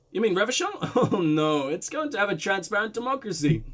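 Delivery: put-on light blend of Russian and German accents. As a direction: voice the man with a slightly muddled Russian-German accent. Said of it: "weird blend of Russian and German".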